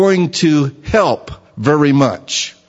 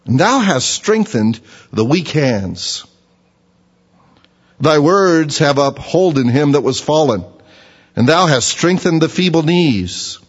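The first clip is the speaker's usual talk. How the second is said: scripture reading. Acted. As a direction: read the verses with weight. Reads Job scripture.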